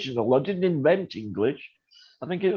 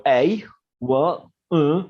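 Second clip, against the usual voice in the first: mock grunting reply; 5 dB louder, slower than usual. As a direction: imitate baffled grunts, a bit louder. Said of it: "they sort of go".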